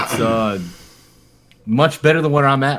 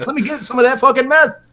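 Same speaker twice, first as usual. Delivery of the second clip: much higher, louder put-on druggie voice; mock stoner; 13 semitones higher, 4 dB louder than usual. Gamer mocking a chat troll as a stoned junkie, high put-on voice. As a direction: play a dazed addict begging for more. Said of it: "engage them and be like".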